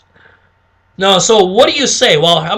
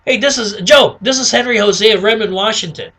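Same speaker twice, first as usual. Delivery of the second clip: lively, higher phone introduction; upbeat caller mirroring prospect; 3 semitones higher than usual. Shown as a demonstration. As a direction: introduce yourself in a matching peppy voice. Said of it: "you wanna mirror it".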